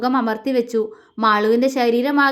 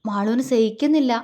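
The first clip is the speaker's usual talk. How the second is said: tender. Acted. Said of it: "അവൾ ആർദ്രമായി പറഞ്ഞു".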